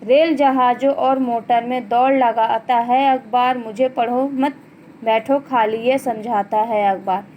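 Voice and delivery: measured classroom poem reading; children's poem recited by a teacher; poem recitation. Acted. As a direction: read the verse out line by line, falling at each close. Reads the poem aloud.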